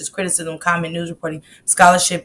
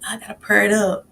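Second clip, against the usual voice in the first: whispered quote; faster than usual. Retold or imitated. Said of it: "So I was like".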